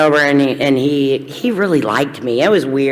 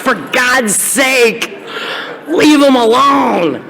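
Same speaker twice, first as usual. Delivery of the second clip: stern scolding; 6 semitones higher, much slower than usual. Retold or imitated. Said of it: "they would say".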